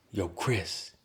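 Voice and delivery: put-on Staten Island accent. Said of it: "in his best, uh, Staten Island voice".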